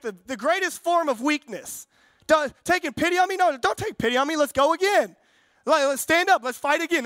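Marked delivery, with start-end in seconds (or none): 2.3-7.0 defiant younger brother. Retold or imitated. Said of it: "That was me and my brother".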